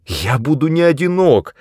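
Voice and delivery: high-pitched objection; protesting. A narrator's reading. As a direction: break in with a protest. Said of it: "возразил я".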